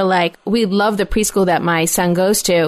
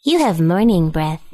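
imitating toddler son; 5 semitones lower, slower than usual. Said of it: "he says".

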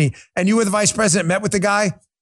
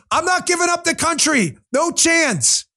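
ordinary delivery

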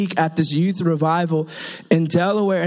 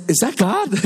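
incredulous; 3 semitones higher than usual. Acted. Preacher replays doubting God's word to feast, incredulous. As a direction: act out mild comic disbelief. Acts out doubting what God said.

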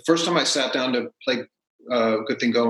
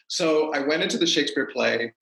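ordinary delivery

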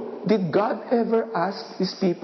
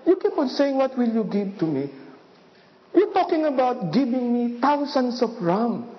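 sarcastic God; 3 semitones higher than usual. Acted. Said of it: "God was sarcastic because he said".

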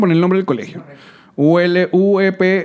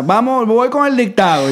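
a touch higher, slow schoolteacher announcing; teacher starting dictation; 5 semitones higher than usual. Retold or imitated. S1 imitating a schoolteacher starting dictation, lightly mocking. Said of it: "Que el profesor comenzara".

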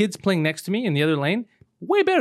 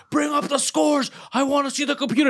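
mock sore loser; 9 semitones higher than usual. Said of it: "He's like".

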